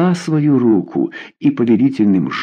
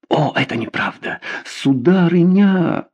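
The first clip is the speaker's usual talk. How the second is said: crying out; 8 semitones higher than usual. A narrator's reading. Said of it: "вскричал Гажье".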